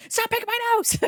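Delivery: high, loud mock shout; hammed-up shout from the drawn baseball kid; mock yell. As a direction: yell it in playful outrage. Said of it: "and you're just like".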